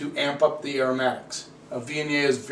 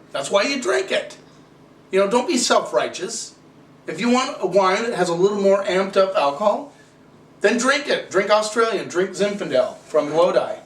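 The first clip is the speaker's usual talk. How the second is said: exasperated, telling them to just drink it; heated rant; 4 semitones higher than usual. Real, not acted. Wine reviewer scolding Bill for disliking strong wine, heated rant. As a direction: pitch climbing higher as he presses the point.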